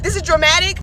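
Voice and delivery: disbelieving rise on dramatic; incredulous. Real, not acted. Answering a commenter who called her dramatic, incredulous. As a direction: throw the word back in disbelief.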